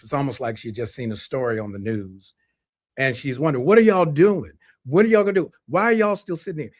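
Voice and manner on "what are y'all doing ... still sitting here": imitated mother pressing them, much higher and louder; voice carrying from another room. Mother wondering why they're still sitting, urgent raised call. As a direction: call it through from the next room, high and urgent. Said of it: "you can hear her voice carry from the kitchen".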